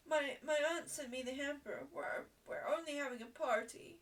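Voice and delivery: tearful excuse, tripping on first words; acted tearful pleading. Schoolgirl explains to the mistress, acted tearful pleading. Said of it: "Ermengarde burst into tears".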